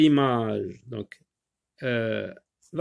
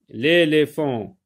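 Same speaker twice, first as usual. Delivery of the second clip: slow word at ordinary pitch; dictation repeat; 3 dB louder, slower than usual. Shown as a demonstration. Teacher repeating a word for pupils, measured dictation style. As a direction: repeat the word slowly and evenly.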